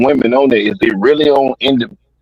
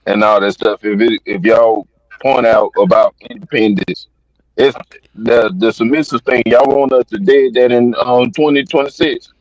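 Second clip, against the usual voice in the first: popping, crackling mic; crackly usb mic. Real, not acted. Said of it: "Gibbs, your mic is popping very badly".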